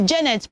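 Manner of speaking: Janet as "CHEN-net"; an "e" vowel in Janet; wrong pronunciation. Shown as a demonstration. Teacher quoting a friend's mistake, mispronounced Janet. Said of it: "you are not Janet".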